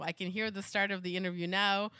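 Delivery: mock NASCAR driver interview in a Southern accent; lightly put-on Southern twang; bad Southern accent. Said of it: "my really, really bad Southern accent".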